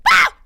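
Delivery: short startled "ah!"; quick mock scream; freaked-out scream. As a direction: re-enact a sudden freak-out shriek. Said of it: "freaking out".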